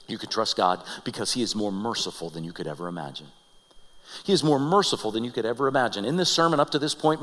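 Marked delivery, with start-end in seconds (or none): 0.1-3.3 low, soft, reverent reading; hushed quotation. Real, not acted. Preacher quotes Moses's last reminder, hushed and low. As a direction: lay it down softly and low.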